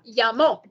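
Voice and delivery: "llamó" with a strong final "mó"; teacher models the final syllable; stress on the MO. Shown as a demonstration. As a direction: say "llamó" leaning on the M and the O together. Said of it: "It's not only the O that I make strong, it's the M O".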